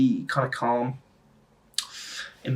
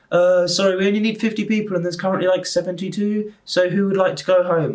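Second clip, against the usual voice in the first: higher, imitated announcer call; crew announcement; 6 semitones higher than usual. Crew asking who would leave, raised announcing voice. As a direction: put on an organiser addressing a crowd. Voicing crew addressing the crowd.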